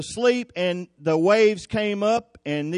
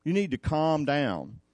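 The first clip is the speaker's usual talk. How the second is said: calm; 5 dB quieter than usual. Acted. Jesus answering the panicking disciples, calm. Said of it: "he just calmly said".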